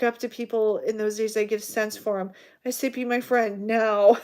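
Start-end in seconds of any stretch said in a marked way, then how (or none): 2.9-4.2 slow, louder pushy order; abrasive demand. Retold or imitated. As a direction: demand it like a jerk. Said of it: "Like a jerk, really abrasive".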